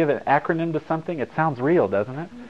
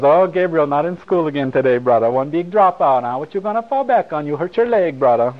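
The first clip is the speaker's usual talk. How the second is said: video store lady; 2 semitones higher, 4 dB louder than usual. Retold or imitated. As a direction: tease him like the lady at the video place, calling him brother. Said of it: "the lady goes".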